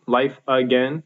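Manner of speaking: LIFE stressed, "again" left light; dactylic stress. Shown as a demonstration. Teacher showing three syllables to a foot, dactylic stress on "life". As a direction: lean on "life", let both syllables of "again" go unstressed. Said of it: "stressed, un, un".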